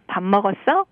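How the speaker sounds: standard Seoul-accent question. Shown as a demonstration. Busan local contrasting how Seoul would say it, Seoul accent. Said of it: "in Seoul accent".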